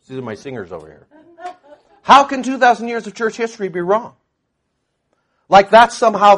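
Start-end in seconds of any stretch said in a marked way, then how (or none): 2.0-4.2 higher, laughing mockery; amused mocking question. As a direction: laugh off the critics' claim. Mocking critics' claim.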